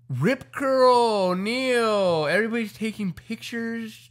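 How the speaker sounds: high, loud, breathless acclaim; excited hubbub. Retold or imitated. Friend recounting sponsors mobbing surfers on the sand, excited high shouting. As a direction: shout it like a beach crowd going wild.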